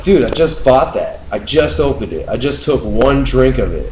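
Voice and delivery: aggrieved complaint, pushed slightly up; retold protest. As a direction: reenact protesting over your lost drink. Retold protest over new drink.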